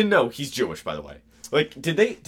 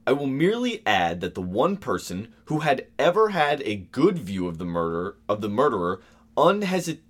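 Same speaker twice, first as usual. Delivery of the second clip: slight stuffy Victorian officer voice; lightly voiced official; 5 semitones lower than usual. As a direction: read like a stiff memoir. Reading quote in deeper voice.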